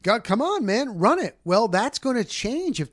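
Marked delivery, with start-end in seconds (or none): 0.0-1.4 taunting defense. Retold or imitated. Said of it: "they're saying".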